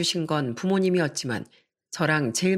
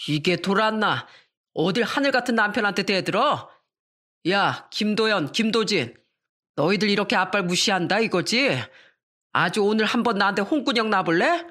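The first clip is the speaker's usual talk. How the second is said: put-on drunk father threatening; 3 semitones higher than usual.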